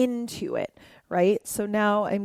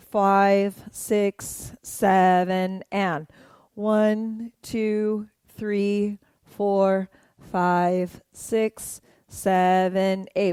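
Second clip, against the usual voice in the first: dance count; much slower than usual. Shown as a demonstration. Counting along to dance moves.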